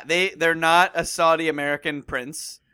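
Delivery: slightly tipsy slurred speech; talking after a few beers. Real, not acted. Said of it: "full disclosure, I am drunk".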